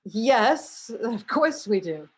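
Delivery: drawn-out, emphatic of course; mock-incredulous, slow affirmation; obvious yes. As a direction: answer as if it's totally obvious. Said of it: "were all like".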